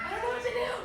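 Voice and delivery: high-pitched mock panic; retold freak-out. Client at a loss asking her coach, mock panic. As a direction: act out helpless panic, pitch way up. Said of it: "One day I was freaking out".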